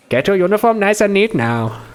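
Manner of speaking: put-on bossy Indian-accented character voice. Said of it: "I can't do Russian names in an Indian accent".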